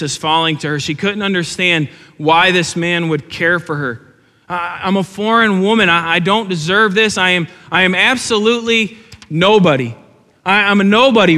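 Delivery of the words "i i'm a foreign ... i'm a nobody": Ruth's thoughts. Acted. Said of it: "Ruth is thinking".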